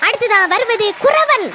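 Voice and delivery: slow announcement, last word drawn out; stage announcer. Acted. Host calling the next fancy dress contestant, announcer style. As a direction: introduce the next act to the audience.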